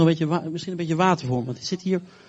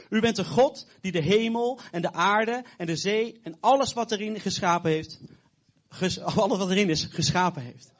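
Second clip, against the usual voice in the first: prayer. Acted. Preacher prays aloud.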